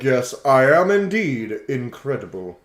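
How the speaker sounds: a hint of a haughty legendary creature; lofty creature voice. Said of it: "Koraidon's like".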